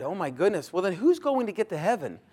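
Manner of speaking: high, loud worried outburst; mock-anxious crowd pleading; acted panic about heaven; scared listeners. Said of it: "They're scared".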